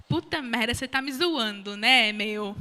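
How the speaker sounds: put-on a light paulistano accent with the São Paulo tune. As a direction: mimic her own slip into paulistano slang. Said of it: "Falei desse jeitinho assim".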